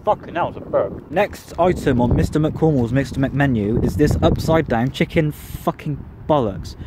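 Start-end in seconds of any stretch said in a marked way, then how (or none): 1.1-6.8 slow, mock-grand menu announcement; lightly hammed-up menu read; mock announcer. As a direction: announce it like a silly game show.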